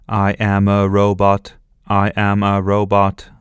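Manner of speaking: robot voice. Acted. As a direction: speak like a toy robot, every syllable even. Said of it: "said Sophie in a robot voice".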